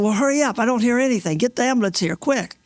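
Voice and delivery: high-pitched, impatient urging; re-enacted emergency demand for help; urgent retold plea. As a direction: hurry the dispatcher along.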